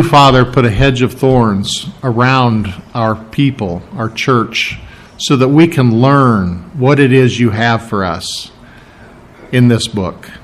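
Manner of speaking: slow, measured prayer with long pauses; earnest, deliberate pastor's prayer; spoken prayer. Real, not acted. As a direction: pray aloud unhurriedly, searching for each phrase. Leads the congregation in prayer.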